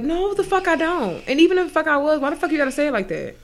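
high, loud indignant denial; angry retort. Real, not acted. Venting at co-host who teased her, loud and angry. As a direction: fire it back, offended and loud.

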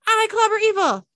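loud high toy voice, stress on clobber; action figure doll voice. Acted. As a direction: repeat it like a toy loop. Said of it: "The action figure doll's voice says".

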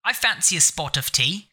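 lightly put-on proper British English; proper British accent. Shown as a demonstration. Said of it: "there's the proper British accent".

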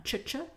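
"ch-ch" hissed voiceless; ch sound. Shown as a demonstration. Teacher isolating the sound, "ch-ch" whispered. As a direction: push out a dry "ch-ch". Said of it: "mais le ch".

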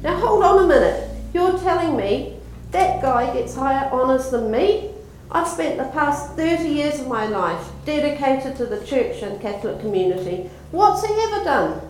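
shocked protest. Acted. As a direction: protest in disbelief, voice shooting up. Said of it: "Anthony is shocked and confused at this".

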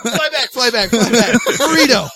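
laughing shout. Pretend. Calling the armadillo back.

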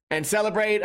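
ordinary talk

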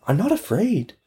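put-on high little girl voice; a small child insisting she is brave. Orphan girl to the neighbors, high and determined.

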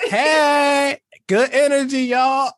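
high laughing shout; host laughing at the clip; laughing mock cheer. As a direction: crack up while calling it out. Laughing, mimicking her cheer.

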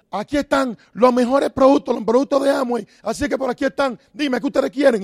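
mock eager saleslady showing off her goods; pushy saleswoman. Amway seller pitching at a parts shop, loud and pushy. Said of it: "Y llega allá y empieza y dice".

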